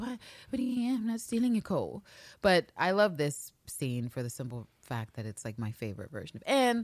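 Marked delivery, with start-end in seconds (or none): 0.0-2.0 high, coy, mock-innocent voice. Describing a man in a scene pretending not to know why he's there, mock-innocent. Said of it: "to play coy".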